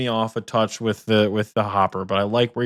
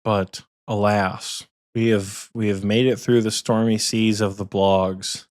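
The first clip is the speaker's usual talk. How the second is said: mock dramatic; slower than usual. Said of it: "so dramatic".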